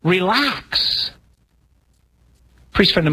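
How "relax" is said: soothing invitation. Retold or imitated. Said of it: "God's trying to pound into our lives going".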